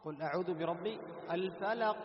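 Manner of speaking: recited verse with a bounced q ending "الفلق"; recite, then release the qaf of "الفلق" with an echo; "الفلق" ending in a short popped q; qalqala on qaf. Shown as a demonstration. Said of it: "من الذي خفف هذه الشدة ... القلقلة".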